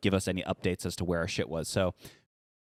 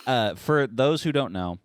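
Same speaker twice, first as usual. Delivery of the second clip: fake Italian-New York accent; 4 semitones higher, 4 dB louder, slower than usual. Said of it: "this fake Italian, like, accent, New York slash Italian accent".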